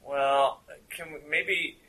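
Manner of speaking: lazy English stoner voice; English stoner accent. Acted. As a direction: drift through it like a mellow English stoner. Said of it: "It's English".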